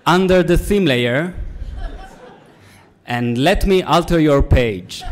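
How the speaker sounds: sultry put-on voice. Innuendo titles in a put-on voice.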